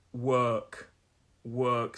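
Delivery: "work" said with an ER vowel; ER vowel sound. Shown as a demonstration. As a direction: say "work" to rhyme with "jerk", low and falling. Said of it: "So it's an er sound".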